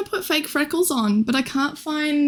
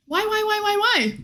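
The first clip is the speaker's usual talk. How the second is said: mock whine; 9 semitones higher than usual. Whining at chat's disappointment.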